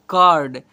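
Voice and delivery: कार्ड loud, with an open a before r; u read as a. Shown as a demonstration. Teacher reads the spelled word to pupils, open a sound. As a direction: punch out कार्ड with a for u. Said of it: "को अ से पढ़ते हैं".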